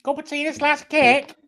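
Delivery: high, loud exclamation; excited read-out. Acted. Friend reads out the last dish, high excited read-out. Reading it out before redoing it.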